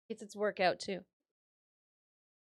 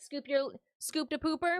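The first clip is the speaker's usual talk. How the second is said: put-on cat baby talk; 5 semitones higher, 6 dB louder than usual.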